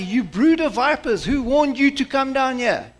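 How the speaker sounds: John's rebuke. Acted. Preacher voicing John the Baptist rebuking the leaders, scolding. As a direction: thunder at the religious leaders.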